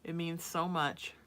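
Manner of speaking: words stretched through a yawn. Real, not acted. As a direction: say it mid-yawn. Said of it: "Sorry, I yawn when I'm cold".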